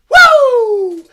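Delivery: a high, loud victory whoop; thrilled yell of triumph; excited whoop. Real, not acted. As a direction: let out a big celebratory woo. Celebrating winning a belt.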